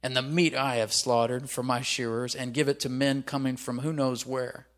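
mildly surly grumbling. Acted. Nabal refusing food to David's men, surly. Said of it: "trying to be surly here".

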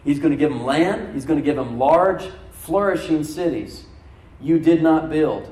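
slow, deliberate scripture reading; read slowly. Shown as a demonstration. Pastor reading Deuteronomy slowly so the church takes it in. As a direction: give each phrase room, slowly and firmly. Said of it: "I'm gonna read this slowly".

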